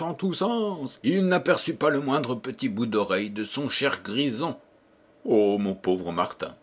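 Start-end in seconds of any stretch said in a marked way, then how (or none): 5.2-6.5 anxious, lower voice, a worried cry for his lost donkey. Acted. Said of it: "s'écria-t-il tout inquiet".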